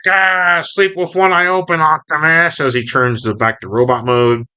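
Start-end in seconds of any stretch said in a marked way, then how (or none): 0.1-2.6 high cartoon villain threat; Starscream. Starscream threatens Optimus while transforming, high and menacing. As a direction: voice a high-pitched taunt at the hero. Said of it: "and he's like".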